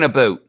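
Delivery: ABOUT said "a-boat"; Canadian-style about. Retold or imitated. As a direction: round the vowel of ABOUT into "oh". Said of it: "I'm like".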